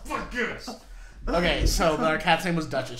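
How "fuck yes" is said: high cheer at ordinary volume; small high-pitched whoop; tapering cheer. Real, not acted. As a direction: squeal it with the volume pulled back. Cheers once more, less loud.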